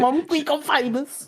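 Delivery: high, drawn-out mock celebration; hammed-up call out to Mum; mock excitement. Joking that Mum saw the stream, mock excitement.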